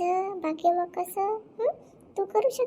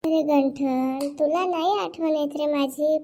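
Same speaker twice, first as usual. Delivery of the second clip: coaxing drawl; 4 semitones lower, 3 dB quieter, slower than usual. Acted. Seductive woman coaxing Ganthan.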